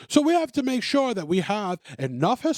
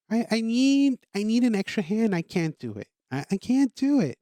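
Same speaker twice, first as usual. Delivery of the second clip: mock whiny baby; 3 semitones higher than usual. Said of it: "you sound like whiny babies".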